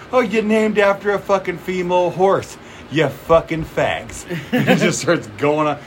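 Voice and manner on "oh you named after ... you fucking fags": higher-pitched comic tirade; mock insult rant. Retelling Bill Burr going off on Philly, mock tirade. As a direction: taunt in a raised pitch, drawing out the end.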